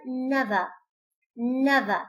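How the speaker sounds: "never" ending in a plain vowel, no r sound; non-rhotic never. Shown as a demonstration. Teacher models RP never without r, slowly. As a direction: drop the final r of "never". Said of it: "there is no re".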